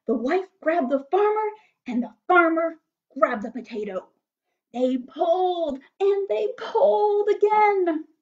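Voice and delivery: animated storybook reading with big swelling emphasis; story narration. A narrator's reading. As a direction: build the wonder for small listeners.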